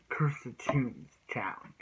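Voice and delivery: whispered, slow, like a secret title reveal; hushed title guess. Shown as a demonstration. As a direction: breathe the name out as a mystery. Guessing the English episode title.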